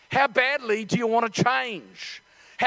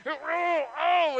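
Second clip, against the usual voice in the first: raised, groaning oh; straining grunt; 5 semitones higher than usual. Acted. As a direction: groan as if birthing something. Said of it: "There was a grunt".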